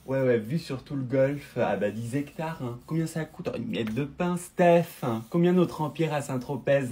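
low, drawling snob showing off; snobbish rich lady. Acted. Rich Parisian client bragging to the beautician, snobbish drawl.

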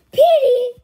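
high, loud cry of realisation; shocked cry. Acted. Solving the syllable riddle, shocked high shout. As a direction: blurt it out in alarm.

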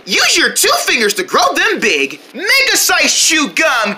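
upbeat toy commercial voice; TV ad read. Acted. Kids playing pretend toy commercials, upbeat ad voice. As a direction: pitch the product like an ad.

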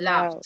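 "Laughed" ending in a clear FT. Shown as a demonstration. Teacher correcting students, "Laughed" with final T. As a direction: say "Laughed" as one syllable closed with T. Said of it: "con T al final".

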